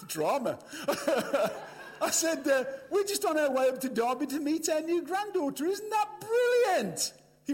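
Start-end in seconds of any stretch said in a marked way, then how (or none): 2.9-7.1 gushing news. Retold or imitated. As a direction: gush as if he should share the joy. Over-excited news to boy.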